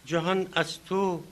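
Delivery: slow, measured verse with drawn-out words and long pauses; poem recitation. Acted. Speaker recites the honoured poet's verse to the audience, poem recitation. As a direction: declaim the opening words, easing at line ends.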